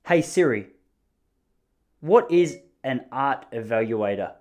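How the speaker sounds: slowed, careful question to the phone; deliberate voice-command delivery; talking to Siri. Real, not acted. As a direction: ask the assistant slowly and clearly. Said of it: "Don't judge the way that I speak to Siri".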